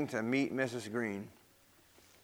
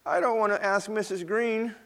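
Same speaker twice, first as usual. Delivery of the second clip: put-on a crying child pleading, higher; 7 semitones higher than usual. Peter pleads with Grandma, mildly tearful. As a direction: Peter answering Grandma through tears, a touch of crying. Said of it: "said Peter, crying".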